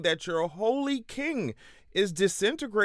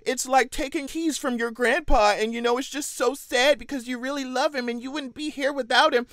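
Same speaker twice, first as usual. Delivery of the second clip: mocking Van Jones; 4 semitones higher than usual. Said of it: "literally talking about some".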